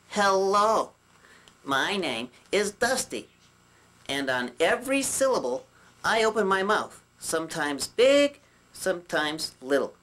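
slow, syllable by syllable; demonstrating. Shown as a demonstration. Puppet shows viewers the better way to talk, demonstrating deliberately. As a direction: space out each phrase deliberately. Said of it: "this is how it's supposed to be done".

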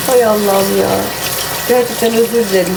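sniffly nose while talking; sniffling. Real, not acted. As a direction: talk through a runny nose. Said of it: "sürekli burnumu çekiyorum".

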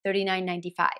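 "thirty-nine ninety-five" with the T as a quick D; flapped T. Shown as a demonstration. Teacher modelling fast price "thirty-nine ninety-five". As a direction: tap the T lightly like a D. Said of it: "特に聞き取りづらい".

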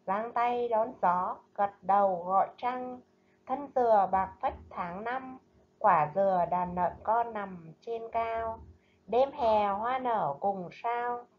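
slow, measured poem recital; poem reading. Acted. Teacher reading a poem to her pupils, slow and measured. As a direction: read the lục bát poem gently to the class.

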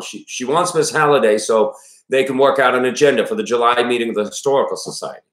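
put-on father explaining in a Maine accent. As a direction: give the sickbed report as a Mainer. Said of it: "when I do this accent".

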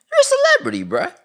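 high, loud scolding yell; exasperated yell. Acted. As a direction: yell it at him, fed up. Scolding Tory, high outburst.

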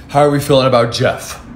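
masculine voice. Acted. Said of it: "let me never do that voice again".

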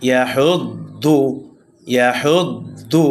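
slow ইয়াহুদ্দু, final "দু" kept short; no vowel stretch. Shown as a demonstration. Teacher showing no madd, ইয়াহুদ্দু with short vowels. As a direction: lean on the doubled দ, release short in ইয়াহুদ্দু. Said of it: "কোনো টান হবে না".

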